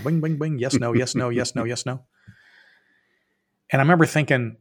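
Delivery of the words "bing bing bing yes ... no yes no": ping-pong indecision. Retold or imitated. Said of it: "ping pong ball in your head".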